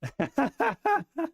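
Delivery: high-pitched burst of laughter; laughing burst. Real, not acted. Streamer cracking up alone at his chart, high burst of laughter. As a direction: let a real high laugh break out.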